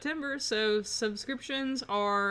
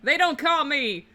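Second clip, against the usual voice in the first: drawn-out, grand New Orleans boast; boastful lawyer Falcon; 4 semitones higher, 8 dB louder, much slower than usual. Acted. Lawyer boasting to his assistant, hammed-up and drawn out. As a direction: puff up the name, slowly.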